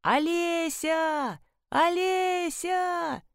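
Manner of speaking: long drawn-out high calls into the dark; calling out. A narrator's reading. Searching for a lost woman at night, drawn-out calling. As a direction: call her name across the field, drawn out slow. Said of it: "поэтому кричала".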